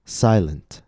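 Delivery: "Silent" with a long first vowel, then falling; stress on first syllable. Shown as a demonstration. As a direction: lean on the start of "Silent". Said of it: "Notice how the first syllable".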